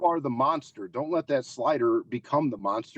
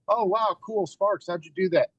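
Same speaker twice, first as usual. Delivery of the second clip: higher, gushing mock fan voice; imitating awed fans; 8 semitones higher than usual. Slider mocking how fans react to the sparks, in a higher, gushing voice. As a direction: play a starstruck fan asking how he did it. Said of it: "they're always just".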